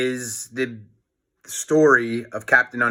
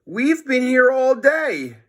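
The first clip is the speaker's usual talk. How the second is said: put-on much higher, slow boy's alibi; Harold, boy voice; 12 semitones higher, 4 dB louder than usual. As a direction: innocent kid insisting. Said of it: "said Harold".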